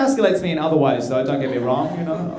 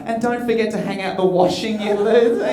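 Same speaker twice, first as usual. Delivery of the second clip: higher-pitched taunting reminder; needling girlfriend; 5 semitones higher than usual. Retold or imitated. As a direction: twist the knife as the departing girlfriend. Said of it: "Sometimes you dig the knife in further".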